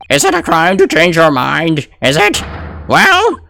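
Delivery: put-on very old man. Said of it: "the old man voice".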